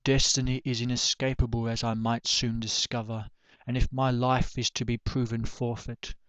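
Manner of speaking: solemn, subdued poetry reading; poem recitation. Acted. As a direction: recite a reflective poem with even, measured phrasing. Recites own poem on death.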